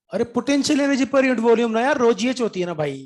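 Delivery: exasperated loud. Real, not acted. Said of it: "मैं चिल्ला चिल्ला के बोल रहा हूँ".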